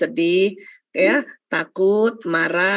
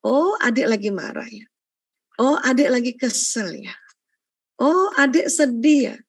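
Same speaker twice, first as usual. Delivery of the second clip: gentle validating. Shown as a demonstration. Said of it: "kita yang bantu ajarin".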